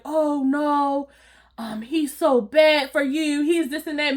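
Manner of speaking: mock Rhonda. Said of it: "All like".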